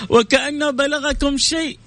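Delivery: high, slow, gentle questioning; a touch of a gentle teacher's question; quoting the Prophet. Acted. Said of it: "فقال لهم النبي".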